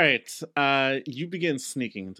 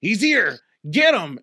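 loud, higher alarm call; shadowy figure shouting; 6 semitones higher, 6 dB louder, slower than usual. Acted. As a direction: raise the alarm, yell it out. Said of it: "this figure in the shadow says".

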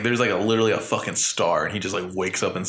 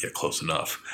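mock deadpan; 5 semitones lower, 7 dB quieter than usual. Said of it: "He's like".

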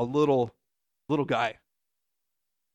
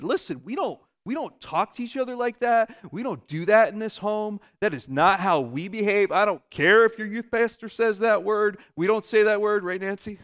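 raised stern parent lecture; 5 semitones higher, 4 dB louder than usual. Retold or imitated. Parent imitating scolding children about behaviour at home. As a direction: scold the kids firmly.

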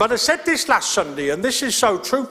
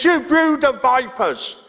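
higher, slow mock rebuke; blunt denunciation; 5 semitones higher, slower than usual. John the Baptist confronting the Pharisees, blunt rebuke. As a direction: deliver it straight to the point, drawn out. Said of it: "He just gets straight to the point".

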